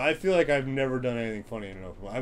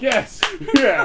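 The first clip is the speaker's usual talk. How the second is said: mock agreement; 12 semitones higher, 11 dB louder than usual. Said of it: "we were like".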